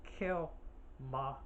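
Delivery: high, drawn-out isolated syllables; Mrs. Voorhees. Shown as a demonstration. Horror fan picks out the key syllables, high and separated. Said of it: "It's her lips".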